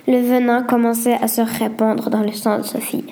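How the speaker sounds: ordinary delivery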